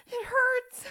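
very high, loud pained wail; anguished cry. Acted. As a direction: cry out in pain. Repeated cry of pain.

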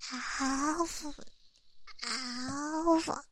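whispered little "awoo" roars; cute dragon roar. Acted. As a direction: roar like a tiny dragon, breathily. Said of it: "有些小可爱说想听我的恶龙咆哮啊".

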